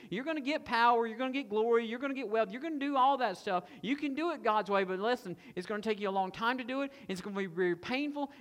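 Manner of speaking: persuasive tempter, pushing the deal; voicing Satan's offer. Satan offering Jesus the world, slick and persuasive. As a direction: sell the easy way hard. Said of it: "Satan tells Jesus".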